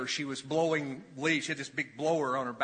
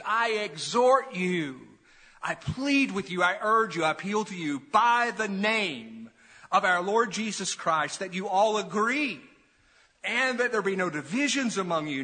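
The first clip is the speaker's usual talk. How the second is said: earnest appeal; 3 semitones higher, 4 dB louder than usual. Acted. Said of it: "appealing to them as kindly and as earnestly".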